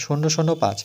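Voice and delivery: শূন্য শূন্য পাঁচ with each digit spoken on its own; digits said separately. Shown as a demonstration. Teacher shows the class how to read decimals, digit by digit. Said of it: "সংখ্যাগুলো ভেঙে ভেঙে বলতে হয়".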